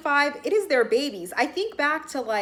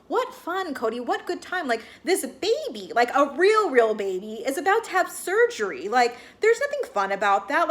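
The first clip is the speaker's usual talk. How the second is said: indignant retort; 2 semitones higher than usual. Retold or imitated. Podcast host answering Cody's talk of fun, indignant. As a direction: throw it back at him as a pointed question.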